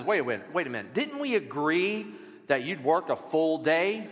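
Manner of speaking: a patient boss settling the workers down; calm boss. Retold or imitated. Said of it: "the boss looks at him and says".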